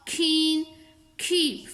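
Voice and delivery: keen and keep opened with Urdu khe; aspirated k. Shown as a demonstration. Teacher drilling the khe rule for K, aspirated k. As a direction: puff air after the k in keen, keep. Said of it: "खे से निकालना है".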